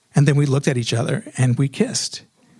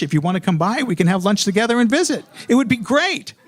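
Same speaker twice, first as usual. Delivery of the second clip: eager-to-please caller, lightly acted; nice, inviting caller; 3 semitones higher than usual. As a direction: re-enact a friendly invitation by phone. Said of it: "I was nice. I was cordial. I was inviting".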